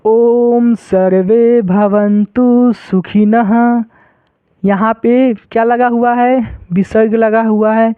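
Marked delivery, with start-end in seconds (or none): 0.0-3.8 slow chanting of the mantra; mantra recitation. Shown as a demonstration. Teacher reciting the mantra slowly for students. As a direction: intone it slowly, syllable by syllable. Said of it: "देखो इसको कैसे पढ़ेंगे".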